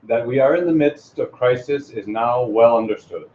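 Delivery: a hint of a solemn president, unhurried; presidential address. Reading the speech as if he were the President. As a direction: speak like a president addressing the nation. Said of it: "as convincing as the President of the United States himself".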